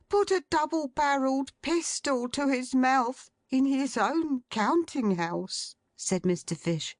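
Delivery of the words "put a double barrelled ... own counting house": shocked secretary. A narrator's reading. Secretary describing the suicide.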